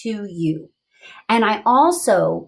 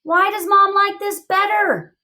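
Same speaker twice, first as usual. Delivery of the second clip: higher puzzled inner voice; wondering voice; 11 semitones higher, 3 dB louder than usual. Acted. Teacher voicing her wondering thinking voice, higher. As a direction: wonder it aloud. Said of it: "I'm wondering".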